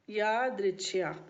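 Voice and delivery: यादृच्छया drawn out by syllable; यादृच्छया stretched out for note-taking; slow dictation. Real, not acted. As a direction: say यादृच्छया slowly and deliberately. Dictates the Hindi term slowly.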